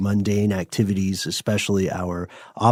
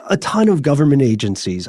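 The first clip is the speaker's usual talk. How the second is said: spooky voice; 4 semitones higher than usual. Acted. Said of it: "I'm gonna do it in a spooky voice".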